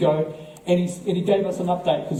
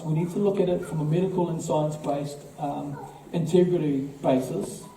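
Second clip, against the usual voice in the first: softer, measured retelling of a calm expert; 3 dB quieter than usual. Retold or imitated. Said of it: "very calmly in his Greek American accent".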